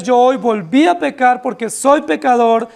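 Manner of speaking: sincere, pressing admission of sin; a mild contrite plea to God; earnest confession. Retold or imitated. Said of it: "Lo que nosotros debiéramos decir es".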